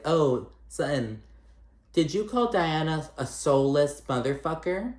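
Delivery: mock accusing question. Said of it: "Rinna's like".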